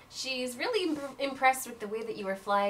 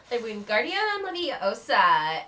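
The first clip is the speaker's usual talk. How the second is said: slow, grand incantation; spell casting; 6 dB louder, slower than usual. Acted. Aurelia casts a levitation charm on the puppy, slow and grand. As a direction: cast the spell with flourish. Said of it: "swishes and flicks and goes".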